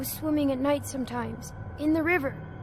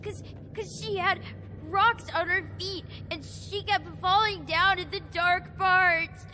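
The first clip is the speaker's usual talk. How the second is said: crying; 3 semitones higher than usual. Acted. Child sobbing continues.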